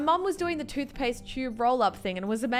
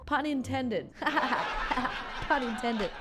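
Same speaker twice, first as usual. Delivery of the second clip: laughing through the fake joke; mock-amused prankster; much slower than usual. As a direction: chuckle along, pretending it was a clever pun. Acting a smug prankster laughing.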